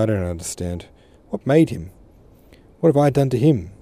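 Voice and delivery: rising, tearful pleading; tearful plea. Acted. Tearful daughter pleading with her father, rising and hurt. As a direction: press the question as if hurt.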